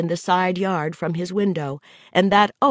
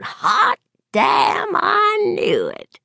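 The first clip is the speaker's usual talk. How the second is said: high gleeful shout; excited whoop; 3 dB louder, much slower than usual. Acted. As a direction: crow it out, delighted. Gary whoops at the plan.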